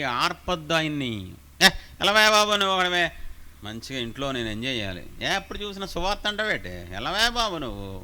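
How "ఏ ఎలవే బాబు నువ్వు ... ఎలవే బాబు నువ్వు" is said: mocking dismissive believer. Mocking a lazy believer's excuse.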